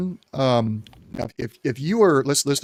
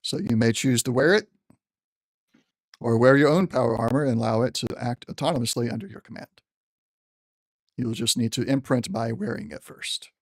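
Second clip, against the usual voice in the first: general's voice. Acted. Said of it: "trying to use the general's voice".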